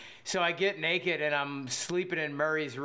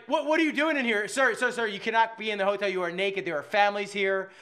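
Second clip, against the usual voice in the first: alarmed scolding; 3 semitones higher, 4 dB louder than usual. Retold or imitated. Clerks scolding naked guest.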